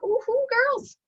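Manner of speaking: put-on high, giddy greeting to girlfriends; playful high-pitched squeal of delight; acted excitement. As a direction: burst in with good news, hammed up. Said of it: "you walk in and you're like".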